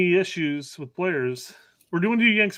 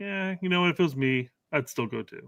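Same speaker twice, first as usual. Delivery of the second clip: bad British accent; 5 dB quieter than usual. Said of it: "I totally fucked up that accent".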